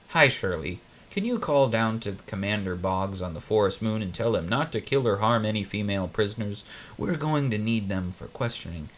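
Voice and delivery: lightly voiced villain giving office orders; lightly voiced Emperor. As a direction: talk like a bored boss on the intercom. Emperor on the intercom.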